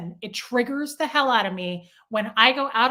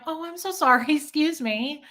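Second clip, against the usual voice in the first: higher-pitched, friendly apology with a little laugh; re-enacted polite excuse-me; nice apology; 5 semitones higher than usual. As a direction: apologize sweetly to a stranger. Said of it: "when I am nice".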